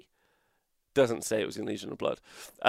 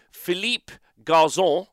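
Spanish inflection; 5 semitones higher, 4 dB louder, slower than usual. Shown as a demonstration. Announcing the runner-up's name with a Spanish inflection. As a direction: give "Philippe Garzon" a Spanish flavour, drawn out. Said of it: "I don't know why I'm putting the inflection on".

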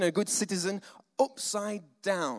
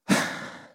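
pointed sigh. Retold or imitated. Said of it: "so you use things like".

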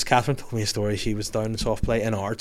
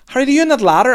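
high mock call up a slide; 14 semitones higher, 10 dB louder, faster than usual. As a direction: shout the name up, much higher. Mum shouting up again.

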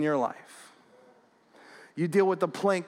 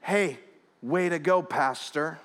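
God's wry rebuke; 2 semitones lower, slower than usual. Retold or imitated. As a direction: deliver sarcastic praise in slow, separate phrases. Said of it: "God spoke to me in that".

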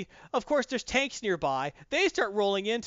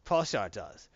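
ordinary talk, nothing marked

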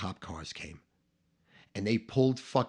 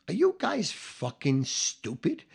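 slow, incredulous scolding; livid disbelief; 3 semitones higher, slower than usual. Retold or imitated. Boss arrives and confronts the two culprits, livid disbelief. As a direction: draw out the question, livid but not shouting. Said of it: "now he's livid".

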